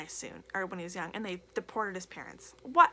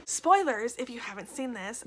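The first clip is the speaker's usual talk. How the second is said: loud warning; 6 dB louder than usual. Real, not acted. Shouting a spoiler warning.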